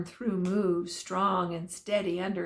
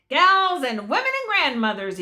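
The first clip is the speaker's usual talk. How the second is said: loud, high call to the valley; shout; 5 semitones higher, 5 dB louder than usual. A narrator's reading. Cowhand shouting down to the women at the dance. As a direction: call out to the whole dance hall. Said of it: "he shouts".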